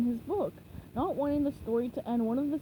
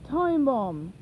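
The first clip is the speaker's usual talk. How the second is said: Plankton voice; 5 dB louder than usual. Acted. Plankton misunderstands.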